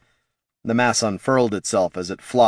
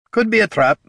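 gruff dwarf conceding; 12 semitones higher, 5 dB louder than usual. Acted. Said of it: "conceded Gorm".

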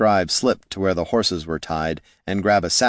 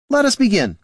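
raised, imperious command; commanding wizard; 13 semitones higher, 3 dB louder than usual. Acted. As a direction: call it out grandly.

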